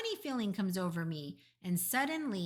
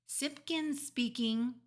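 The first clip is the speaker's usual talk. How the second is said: slow, higher, self-important announcement; important telephone voice; 5 semitones higher, slower than usual. A narrator's reading. Father picks up the telephone, very important voice. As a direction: answer the phone slowly and importantly. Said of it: "in his very important telephone voice".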